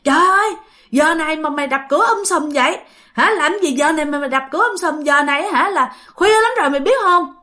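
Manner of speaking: a touch of a grumpy, woken-up scold; mock angry scolding. Sleepy shopkeeper scolding the man who banged on his door, mildly angry. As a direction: grumble at the late-night noise, half-heartedly. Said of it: "ảnh chửi, ảnh nói".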